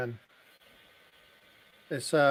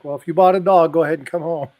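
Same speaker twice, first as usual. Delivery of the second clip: voicing himself; 2 semitones higher, 8 dB louder, faster than usual. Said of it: "And I'm like".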